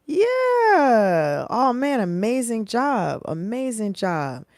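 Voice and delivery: high, loud, gushing praise voice; a music legend. Retold or imitated. A music legend praising a backup singer, high and excited. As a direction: gush like a thrilled music legend. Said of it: "Quincy Jones sees you and he goes".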